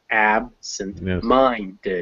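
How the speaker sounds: "absent-minded" slowly, syllable by syllable, weight on MIND; stress shown on absent-minded. Shown as a demonstration. Teacher shows where stress falls, slow stressed "absent-minded". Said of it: "the stress falls on".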